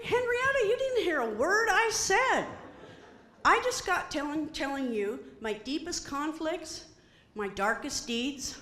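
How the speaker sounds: exasperated pleading. Retold or imitated. Pleading with chicken.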